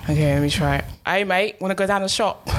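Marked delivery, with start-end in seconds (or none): 1.1-2.5 weakly faked Australian accent; half-hearted attempt at Australian; bad Australian accent. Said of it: "That's meant to be Australian".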